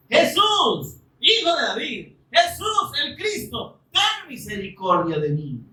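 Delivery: súplica aguda y urgente al Mesías; clamor suplicante. Retold or imitated. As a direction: clama como un ciego pidiendo piedad. Imita clamor de Bartimeo. (súplica aguda y urgente)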